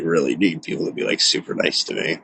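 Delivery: from soft voice down to a whispered plea; fading to a whisper. Real, not acted. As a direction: let it sink into a whisper.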